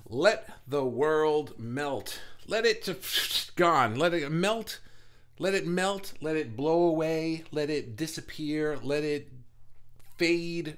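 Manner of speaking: loud, slow, high release; dramatic declaration. Acted. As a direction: proclaim it, let it all go. Dramatic release chant opening.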